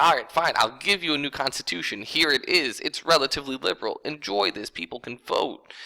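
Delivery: hammed-up weary king handing it over; exasperated king giving in. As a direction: toss them the constitution with mock impatience. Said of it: "so he's like".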